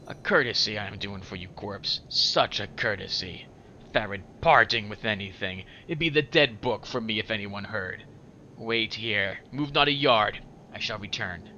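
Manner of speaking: lightly voiced grudging old rogue; grudging Farid. Farid doing the corpse a courtesy, grudging and deliberate. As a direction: dole out the favour with measured disdain.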